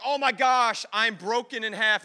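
hammed-up cry of injury; crying wolf. Preacher imitates brother overreacting when hurt, hammed-up crying wolf. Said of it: "he would cry wolf".

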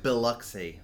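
Biloxi with weight on its first syllable, BIL-ock-see; odd stress. Retold or imitated. Co-host copying the actor's Biloxi, stress on the first syllable. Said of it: "a strange emphasis on the first syllabus".

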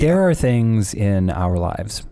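very slow, solemn speech; grand speech. Acted. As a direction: start a big philosophical speech. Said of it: "here's a speech".

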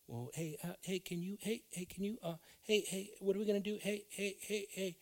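a distraction tugging at him with repeated hey; calling hey. Acted.

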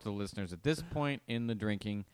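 talking with numb, tingly lips. Real, not acted. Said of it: "report to the listeners ... my lips feel numb".

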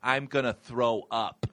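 slow, sick whining voice; a slow queasy whimper; sick whine.

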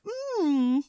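high smug self-approval; smug inner voice. Retold or imitated. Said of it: "I think".

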